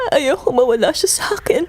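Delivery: anguished whisper. Acted. Mother fearing losing her child.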